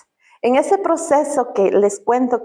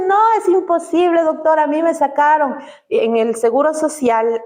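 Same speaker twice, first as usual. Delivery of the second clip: disbelief; 5 semitones higher than usual. Retold or imitated. Friend to the doctor, a higher stunned protest. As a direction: refuse to believe it, voice up.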